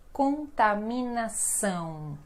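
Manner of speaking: Contaminação with the final ão heavily nasal, slow; strong nasal. Shown as a demonstration. Teacher showing students the nasal ending, slow strong nasal. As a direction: lean into the nasal vowel of Contaminação. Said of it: "Olha o nasal bem forte aqui".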